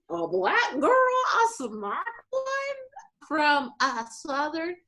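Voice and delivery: very high, drawn-out put-on wonder; mock amazed colleague. Colleague meeting a Black person for the first time, mock amazed. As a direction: marvel slowly in a high, incredulous mimicking voice.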